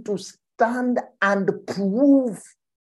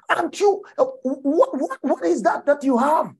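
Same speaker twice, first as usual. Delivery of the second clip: much higher teasing question; mock disbelief; 9 semitones higher than usual. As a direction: poke at them with a high questioning voice. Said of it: "retold rebuke".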